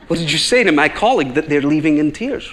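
retold challenge from a protective colleague; accusing colleague. Colleague confronting a customer about the tears, mock-accusing. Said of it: "That's what she's thinking".

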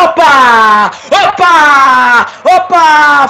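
sudden loud opa, opa; alarmed exclamations. Acted. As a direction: react to the fight starting. Brawl breaks out. (espanto com a briga)

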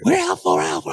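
high, loud chirpy bug voice; insect voice. Acted. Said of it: "the sound of the insect voice".

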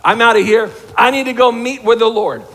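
loud mock exasperation, I'm done; fed up, leaving. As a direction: blurt it out like the last straw. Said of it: "And it's like".

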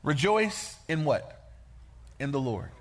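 quiet, slow reassurance; gentle voice of God. Acted. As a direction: ease into it, calm and sure. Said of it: "God says".

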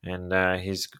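sportscaster impression with swooping emphasis; play-by-play announcer. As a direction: call the at-bat like a veteran broadcaster. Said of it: "just as excited to hear".

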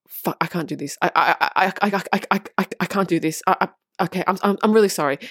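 panicked stammer. Retold or imitated. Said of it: "that is when you go".

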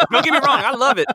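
high, loud laughing talk. Real, not acted. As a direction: laugh through the words. Laughing through his words.

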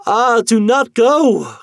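high, slow, wailing plea; loud, drawn-out plea of dread; anguished cry. Acted. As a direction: cry out desperately, dragging the words. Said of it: "cried the wife".

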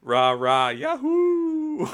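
high whooping military cheer; loud gung-ho soldier. Retold or imitated. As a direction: whoop it like a hyped marine. Marines cheering, quoted.

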